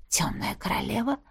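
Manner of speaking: soft curious question. A narrator's reading. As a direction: ask with interest. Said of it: "с любопытством спросила я".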